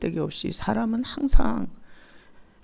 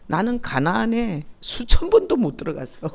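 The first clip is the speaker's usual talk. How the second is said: laughing through the line; self-mocking laugh as she speaks; 3 semitones higher, 3 dB louder than usual. Real, not acted. Telling the congregation about her own failings, laughing.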